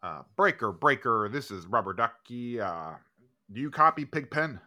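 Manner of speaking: CB radio trucker call; loud trucker radio chatter; over walkie talkie. Pretend.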